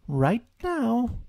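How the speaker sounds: high, firm mother's order; firm Kanga. A narrator's reading. Kanga insists Roo come out, firm.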